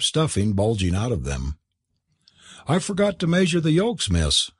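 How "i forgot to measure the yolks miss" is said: higher, lamenting cry of dismay; the cook's mild mock wail over spoiled eggs. A narrator's reading. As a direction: wail it out like a flustered cook. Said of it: "wailed Eliza".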